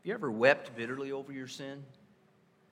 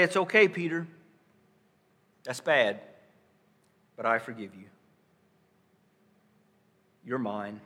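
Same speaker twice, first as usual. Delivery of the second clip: gently reassuring Jesus. Acted. Jesus voiced reassuring Peter.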